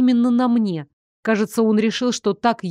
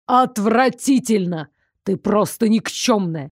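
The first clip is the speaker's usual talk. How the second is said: contemptuous tirade. Acted. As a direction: lash her with disgust. Werewolf teacher berating fallen student.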